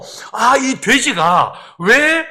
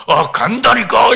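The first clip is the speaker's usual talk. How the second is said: possessed man's voice; 4 dB louder, slower than usual. Retold or imitated. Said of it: "이 남자 목소리로 이야기를 하기 시작했어요".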